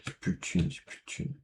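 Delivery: unvoiced dismayed mutter; whispered mutter. Real, not acted. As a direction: breathe it out to yourself. Muttering about no money. (chuchoté, dépité)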